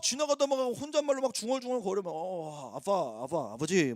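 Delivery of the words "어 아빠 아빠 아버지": casual muttered prayer. Retold or imitated. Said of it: "막 이러면서 막 기도해".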